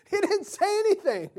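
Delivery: loud, very high squeal of disbelief; hammed-up incredulity. Puerto Rican guy debunking Josh's Spanish, exaggerated high protest. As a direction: cry it out high, scandalised. Astonished punchline of retold story.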